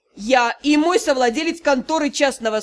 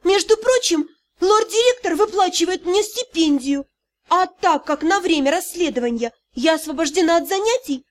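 higher, restrained with a mild break; 4 semitones higher than usual. Acted. Dei answers Yurao's reproach, voice breaking. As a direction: hold back, voice slightly cracking. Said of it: "но срывающимся голосом заявила".

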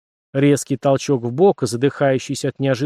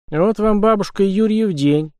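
stunned, higher exclamation; изумлённо; 7 semitones higher than usual. A narrator's reading. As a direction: blurt it out in amazement. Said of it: "выдавить из себя изумлённый". (изумлённо, на выдохе)

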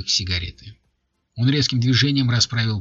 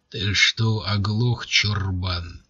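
booming male voice; much slower than usual. Acted. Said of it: "рявкнул он".

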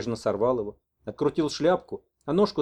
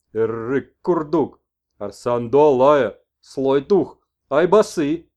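loud, very slow exclamations; shaman messenger; 8 dB louder, much slower than usual. Acted. Messenger cries the spirits' names to the old man, loud. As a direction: proclaim the spirits.

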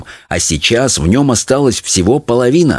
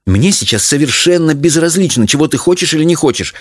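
higher-pitched, cross mother; angry retort; 7 semitones higher than usual. A narrator's reading. Mother overruling her daughter, angry. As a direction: cut the child off crossly. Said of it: "сердито отрезала мать".

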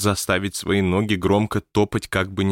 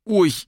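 short yelped "oy"; sudden startled yelp; cry of pain; 13 semitones higher, 4 dB louder than usual. A narrator's reading. Ghost struck on the head by a cane, yelping. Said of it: "вскрикнул он".

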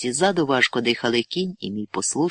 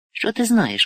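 sharp shout, pitched much higher; 9 semitones higher than usual. A narrator's reading. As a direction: snap at the novice in anger. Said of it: "крикнув я".

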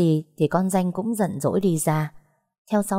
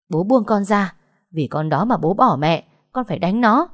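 insistent, louder daughter's protest; angry protest; 3 semitones higher, 4 dB louder than usual. Acted. Daughter fights father's grip to get at her rival, angry protest. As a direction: protest angrily, rising at the end.

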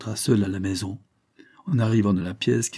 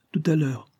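whisper; 6 semitones higher than usual. A narrator's reading. Lovers alone, whispered reply.

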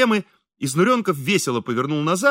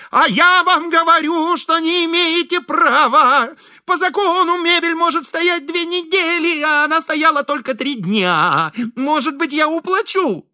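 high, loud, pleading protest; desperate pleading; 12 semitones higher, 4 dB louder than usual. A narrator's reading. Host chasing the courier, high and desperately pleading. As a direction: chase him down begging.

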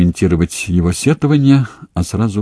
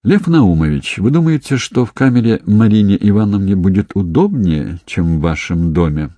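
plain reading voice

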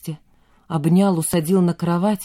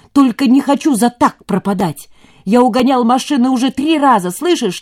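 loud, high, stress on три; defiant shouting; 6 semitones higher, 6 dB louder than usual. A narrator's reading. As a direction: hammer the confession at him. Kostya confesses, shouting.

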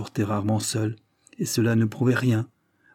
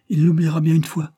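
higher, louder, resolute; determined outburst; 7 semitones higher, 6 dB louder than usual. A narrator's reading. Madame Roger vowing to herself, resolute and loud. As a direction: vow it to herself.

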